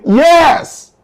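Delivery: high, mock crowd yell of yes; crowd shout. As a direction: shout it like the whole courtroom. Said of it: "The whole courtroom is shouting".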